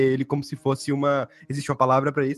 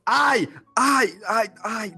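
mock pained ai ai, higher; wincing in pain; 4 semitones higher, much slower than usual. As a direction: wince like it stung you.

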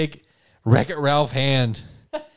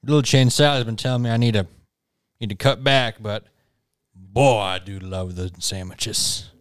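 Big Chain Billy; 4 semitones lower than usual. Acted. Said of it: "He goes".

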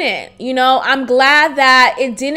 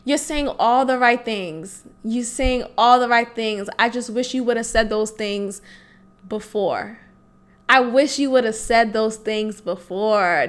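calm and plain; 2 semitones lower, 6 dB quieter than usual. Retold or imitated. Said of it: "I just made it very plain and clear".

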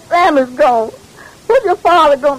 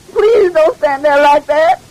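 tearful plea. Acted. Maid pleading with frozen mistress.

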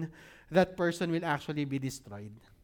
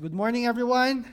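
rising, louder call to the crowd; calling out greeting; 4 semitones higher, 5 dB louder, faster than usual. Real, not acted. Pastor greets the seated congregation, calling out. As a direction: hail the whole room, lifting the last word.

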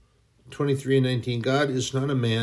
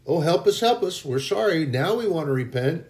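pleading, rising higher on the second help us; mock pleading cry; 4 semitones higher than usual. Preacher voices flood victims begging God, mock panic. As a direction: cry out like the drowning begging mercy. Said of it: "they're screaming and hollering".

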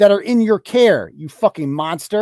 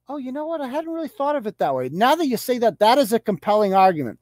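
sarcastic mock surprise; 4 semitones higher, 4 dB quieter than usual. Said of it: "sarcastic mock conversion".

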